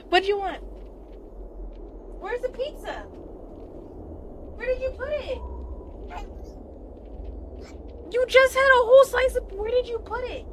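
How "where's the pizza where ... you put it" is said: mock accusing. Playful demanding about pizza.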